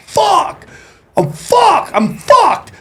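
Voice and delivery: high-pitched comic wail of doom; retold panic. Retells panic at being pulled over.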